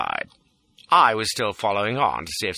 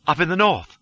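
distraught pleading; 8 semitones higher, 3 dB louder than usual. A narrator's reading. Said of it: "The distraught pleading line".

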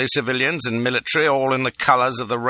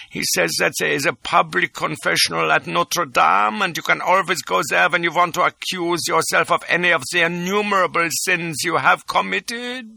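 nervous reluctant telling; 8 semitones higher than usual. A narrator's reading. Reluctant bad news.

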